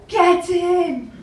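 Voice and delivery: high, loud yell of triumph; really loud shout. Retold or imitated. Berserk woman before a poker tournament, really loud shout. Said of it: "really loud".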